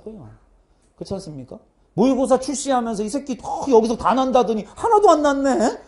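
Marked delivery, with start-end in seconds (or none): 1.9-5.8 higher-pitched, hammed-up student complaint; mock outrage. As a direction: imitate an indignant student griping. 성난 수강생의 불평을 흉내. (따지듯 높은 목소리로 불평 흉내)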